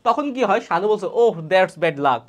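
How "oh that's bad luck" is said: sympathetic model line. Shown as a demonstration. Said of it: "খারাপ একটা সংবাদ শুনেছে".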